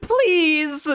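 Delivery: high, loud scream of refusal; terrified shouting; desperate shout. Acted. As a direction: scream out against dying. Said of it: "I shouted that".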